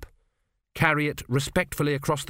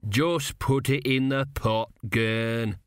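weary sigh; much slower than usual. Acted. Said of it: "Dill sighed".

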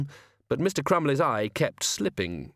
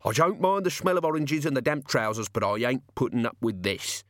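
put-on disgruntled old man; 2 semitones higher than usual. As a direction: complain like an old costumed Santa quitting. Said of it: "said the old man in the Hogfather costume".

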